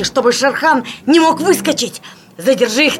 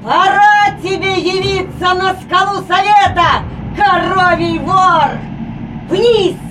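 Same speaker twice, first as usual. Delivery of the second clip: shouting; 6 semitones higher, slower than usual. Acted. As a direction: drive the herd down with a yell. Mowgli shouts at the tiger. (громкий командный крик)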